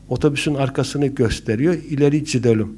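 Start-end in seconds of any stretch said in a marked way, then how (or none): 1.9-2.7 put-on Black Sea accent at an everyday level. Black Sea driver to passengers, in regional accent. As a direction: lightly imitate a Karadeniz driver's accent. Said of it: "Karadenizliymiş".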